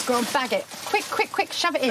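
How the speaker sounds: high, rapid urging; urgent. Real, not acted. Urging to bag the chicken.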